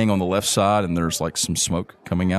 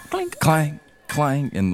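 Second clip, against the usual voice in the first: clink clang, slow and drawn; metal clang; 8 semitones higher, slower than usual. Shown as a demonstration. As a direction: sound out hammer on anvil. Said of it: "You hear the sound of".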